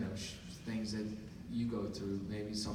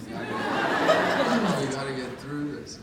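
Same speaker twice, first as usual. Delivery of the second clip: slow, laughing through the words; 5 semitones higher, 10 dB louder, much slower than usual. Real, not acted. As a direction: laugh while hurrying things along. Laughs at rushed request.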